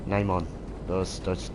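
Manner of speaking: ordinary talk, nothing marked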